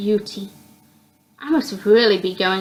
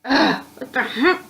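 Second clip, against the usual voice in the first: cry of pain; 3 semitones higher than usual. Acted. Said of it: "I shout out in pain".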